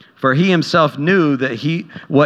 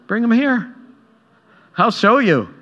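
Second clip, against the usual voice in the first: Jesus commanding; 8 semitones higher than usual. Retold or imitated. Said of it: "But Jesus says".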